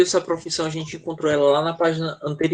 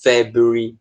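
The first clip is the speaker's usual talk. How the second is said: quick British February, stress on "Feb"; February in a British accent; 3 semitones lower, slower than usual. Shown as a demonstration. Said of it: "é por isso que eles falam".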